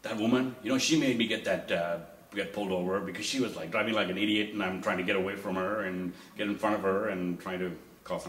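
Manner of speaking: wife ranting about the other driver while driving away, loud; wife yelling. Retold or imitated. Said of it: "she's, like, yelling at me".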